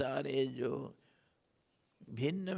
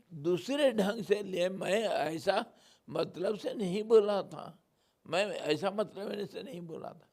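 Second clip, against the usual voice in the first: mock politician's protest, pitched higher; higher, loud at first, then easing; 5 semitones higher, 4 dB louder than usual. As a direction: insist you were misquoted, imitating a politician. Mimics politician denying his words.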